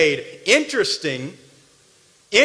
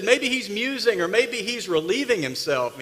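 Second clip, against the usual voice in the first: sarcastic mockery; 4 dB quieter than usual. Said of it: "Elijah mocked him".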